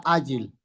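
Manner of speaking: ágil as Á-gil, first syllable stressed, falling. Shown as a demonstration. Teacher showing students where ágil takes its stress, stress on Á. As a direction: hit the á of ágil. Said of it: "Acento en la primera".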